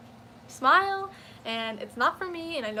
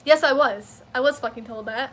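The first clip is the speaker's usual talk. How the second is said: loud, heated comeback; retold angry retort; 7 dB louder than usual. Retelling snapping back at the clerk, loud and heated. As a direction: snap back at her hard. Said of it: "something broke in my brain".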